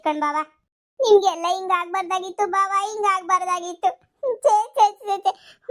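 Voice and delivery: hammed-up tearful pleading, mostly in her own voice; milk the sorrow for the camera; overacted grief. Sister-in-law fakes grief to her brother-in-law, overacted sobbing plea. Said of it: "ನೂರು ರೂಪಾಯಿ acting ಮಾಡಿ".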